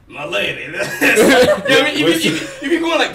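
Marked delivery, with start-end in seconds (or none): 0.1-0.6 mock-suave Italian accent; thick Italian accent. Fan quoting a game character's pick-up line, hammed Italian accent. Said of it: "Make sure my accent's thick as hell".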